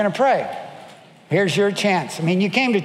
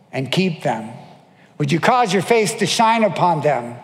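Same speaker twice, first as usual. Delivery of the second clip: benediction. Acted. Pastor blessing the congregation at the end of service, fervent. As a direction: bless the congregation with full force.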